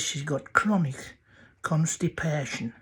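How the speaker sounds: slow, deliberate repeat of "chronic constipation". Acted. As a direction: spell out "chronic constipation" slowly for a friend who didn't catch it. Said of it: "I beg your pardon".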